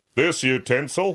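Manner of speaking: throaty, back-of-throat headmaster voice. Imitating a woodwork teacher praising a student's work: throaty headmaster voice. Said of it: "voices down the back of their throat like a headmaster".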